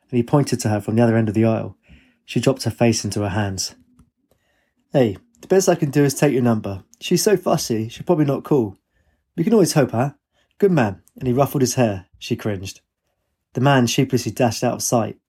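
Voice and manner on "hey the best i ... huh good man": a hint of a jovial, meddling dad; lightly voiced father. Father taking young man's number for daughter, lightly jovial. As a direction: lightly play a chummy dad, higher at times.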